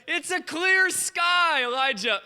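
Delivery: high, drawn-out call; servant's cried report. Retold or imitated. Servant reporting back to Elijah, cried-out report. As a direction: call it out high, dropping on the name. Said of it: "He comes back to Elijah".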